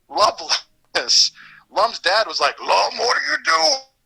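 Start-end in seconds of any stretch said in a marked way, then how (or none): 2.6-3.8 squeaky-high, rough, weird gravelly cartoon dinosaur voice. Recalling playing Lum's dad, doing the weird gravelly Lum's dad voice. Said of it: "it was just this weird, gravelly".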